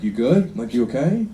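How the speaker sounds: imitated caring question, gently rising; mildly acted worried check-in; genuine concern. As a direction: ask like a wife who really cares. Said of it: "it would be genuine concern".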